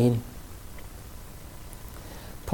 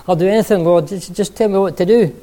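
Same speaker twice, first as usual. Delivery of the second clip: eager pleading; 5 semitones higher, 5 dB louder than usual. Acted. Jack eager to obey.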